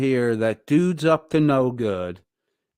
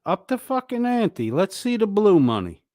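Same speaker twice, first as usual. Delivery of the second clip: much higher, pushy, goading call; taunting challenge; 8 semitones higher, 3 dB louder than usual. Acted. Streamer goading Chili to raise the bounty, high taunting challenge. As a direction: goad him to pay more.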